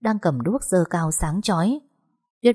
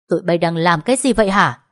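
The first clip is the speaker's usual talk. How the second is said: a louder, sharp demand; angry shout; 5 dB louder than usual. Acted. Husband catches wife in an embrace, louder angry demand. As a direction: burst in on them.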